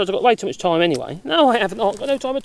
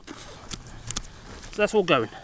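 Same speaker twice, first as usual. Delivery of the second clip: very slow, softer, whispered aside; quiet aside; 3 semitones lower, 11 dB quieter, much slower than usual. Real, not acted. Gardener finishing the job, whispered to himself. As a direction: let it drift off under your breath. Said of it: "quiet slow closing".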